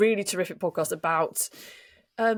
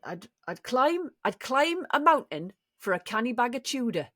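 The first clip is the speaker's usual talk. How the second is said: Geordie accent; 4 semitones higher than usual. Shown as a demonstration. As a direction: try the advert line in Geordie. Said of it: "a Geordie accent when I was at university".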